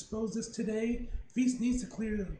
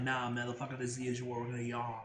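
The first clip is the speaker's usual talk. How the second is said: gruff voice; 7 semitones lower, 4 dB quieter, faster than usual. Pretend. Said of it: "this issue's like".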